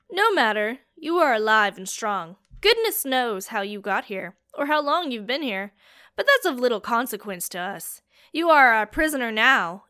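loud, rough henchman voice; gruff captor. Acted. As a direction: lay down the law roughly. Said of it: "said a gruff voice".

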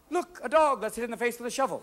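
high, excited mock suggestion; gasp, then propose it brightly; hammed-up eager discovery; gleeful someone. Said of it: "Did someone say".

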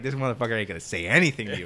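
fast, laughing aside. Retold or imitated. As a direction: chuckle it out fast. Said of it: "And I was like".

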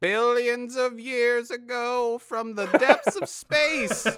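booming movie trailer narrator; old sci-fi announcer. Pretend. Dramatic origin story narration.

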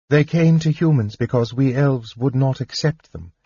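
lightly voiced elf princess, earnest and hopeful; a hint of a passionate young woman; hopeful daughter. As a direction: tell him your new hope. Daughter speaks hope to father.

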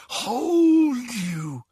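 rising, pleading hold. A narrator's reading. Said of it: "whispered the voice".

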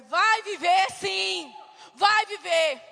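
slow, loud, firm insistence; defiant declaration. Retold or imitated. To the doctors, a loud, slow vow that the child will live. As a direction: declare it will live, punching each vai.

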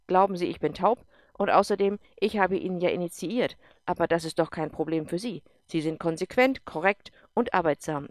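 loud, forceful officer voice; stern general, cutting in. Acted. General cuts off Erik, loud and forceful. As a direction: snap him out of his doubt.

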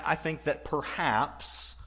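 "perhaps" drawn out with deliberate emphasis; stress on perhaps. Real, not acted. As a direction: lean slowly on the word "perhaps". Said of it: "the emphasis on the word perhaps".

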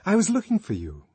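high, loud and clear; high, carrying woman's voice; clear ringing voice. A narrator's reading. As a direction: speak up over a humming machine. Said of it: "Her voice rang clear above the hum".

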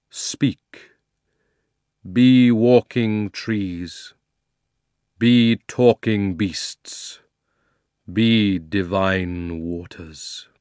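loud, slow, commanding lion's call; Aslan's call. Acted. Aslan calling the new land awake, slow and commanding. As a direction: boom out a solemn command to a new world.

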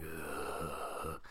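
low, quiet "ugh"; hushed mimicked creepy noise; creepy groan. Mimics creeped-out wide-eyed stare.

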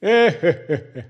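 loud acted burst of laughter; mocking laugh. Colleague laughing at the preacher's pain, loud acted laugh. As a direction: burst out laughing at someone's misery.

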